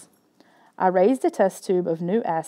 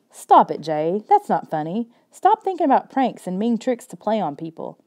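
scolding; 2 semitones higher than usual. Acted. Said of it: "Kayla wasn't finished scolding me".

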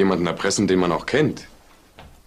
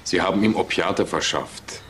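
slow, stress on ihm; slow accusation; 3 semitones lower, slower than usual. Acted. Detective confronting the pharmacist, slow and accusing. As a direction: lay out the charge word by word.

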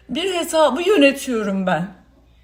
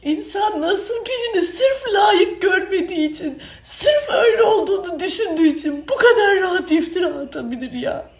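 crying outburst; 2 semitones higher than usual. Real, not acted. Crying outburst, shout heard.

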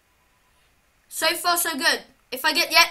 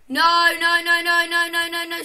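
rapid, louder panicked no's; 5 dB louder than usual. Real, not acted. Player watching the game go wrong, alarmed. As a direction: blurt them out in alarm.

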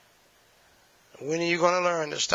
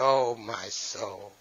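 sighing dismay; 6 semitones lower, 3 dB quieter, much slower than usual. Retold or imitated. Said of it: "I said".

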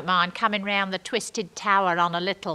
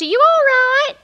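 high, loud call down to the ground; 11 dB louder than usual. Retold or imitated. Stuck up high, calling down to Norm's mum, loud. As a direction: shout down from the top of the wheel.

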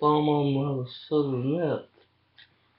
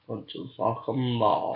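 laughing. Real, not acted. Laughs through the line.

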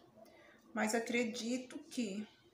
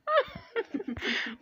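delighted laugh; 12 semitones higher than usual. Real, not acted. Grandma laughing at the baby.

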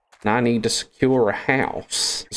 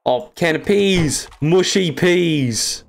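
higher, slow gleeful cry; delighted; 7 semitones higher, slower than usual. Real, not acted. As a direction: savour the find with glee. Delighted loot find.

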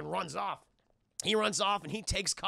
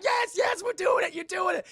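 high, loud hammed-up cheering; shouting with giddy glee; mock cheering; 13 semitones higher, 6 dB louder than usual. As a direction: cheer it like a giddy cartoon villain. Claw cheering while carried off.

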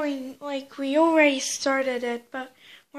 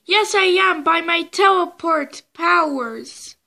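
excited toy chase; 3 semitones higher, 4 dB louder than usual. Pretend. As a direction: yell after the runaway toy. Toy chase, pursuer and escapee.

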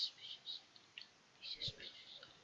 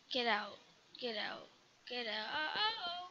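whimpering plea; 3 semitones lower, slower than usual. Real, not acted. Cry heard.

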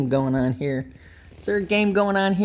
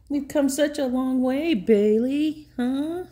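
emotional; 9 semitones higher than usual. Real, not acted. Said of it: "I'm getting emotional right now".

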